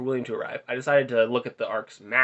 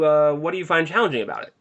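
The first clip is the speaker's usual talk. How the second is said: higher, louder small-talk question; lightly voiced Justin; 4 semitones higher, 5 dB louder than usual. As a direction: lightly imitate an awkward questioner. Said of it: "Justin, so".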